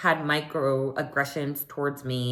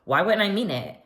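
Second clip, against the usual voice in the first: mock befuddled; 3 semitones higher, 4 dB louder than usual. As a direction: answer as if baffled by the question.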